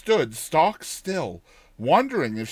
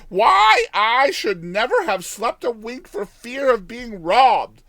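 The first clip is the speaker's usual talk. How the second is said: put-on high, loud old village woman; old countrywoman; 6 semitones higher, 6 dB louder than usual. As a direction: voice her as a chatty old peasant woman, higher and louder. Old woman content with iron.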